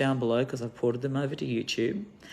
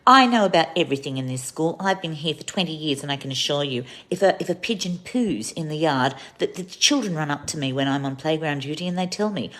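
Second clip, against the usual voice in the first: smug teacher; 3 semitones higher, 4 dB louder than usual. Retold or imitated. Teacher defends herself.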